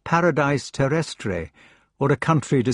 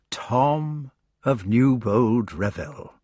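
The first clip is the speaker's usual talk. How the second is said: with wonder; slower than usual. Acted. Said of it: "he said with wonder".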